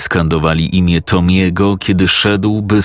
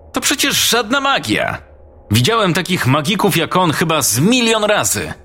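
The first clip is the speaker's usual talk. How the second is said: much higher, mocking schoolboy; a know-it-all boy sneering at the trick; scornful boy Chris; 11 semitones higher than usual. Chris scoffs at the magic.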